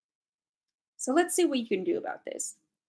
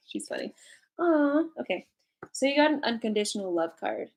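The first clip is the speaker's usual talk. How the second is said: usual speaking voice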